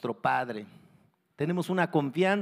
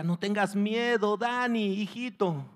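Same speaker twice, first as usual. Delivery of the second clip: reassuring father; 6 semitones higher than usual. Acted. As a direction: reassure your scared child from below. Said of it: "el padre le decía".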